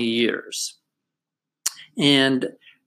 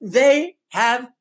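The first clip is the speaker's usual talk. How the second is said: higher, bubbly telling of a happy dog; excited; 9 semitones higher than usual. Acted. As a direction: share the dog's joy.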